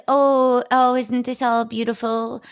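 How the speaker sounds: high, gushing mock delight; Lily gushing to the room, mock swoon. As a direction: coo over how lovely it all is. Character quoted in recap.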